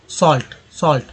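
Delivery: सॉल्ट with A as a long open vowel; pronunciation demo. Shown as a demonstration. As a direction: model सॉल्ट clearly, letting the pitch fall. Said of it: "सॉल्ट में ए का उच्चारण". (सॉल्ट का साफ़ उच्चारण)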